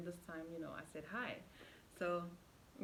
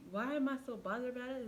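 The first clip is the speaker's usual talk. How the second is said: higher, indignant repeat of the question; retold argument; 5 semitones higher than usual. Arguing with her boyfriend, she echoes him indignantly. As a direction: throw the question back, heated. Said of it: "we arguing now".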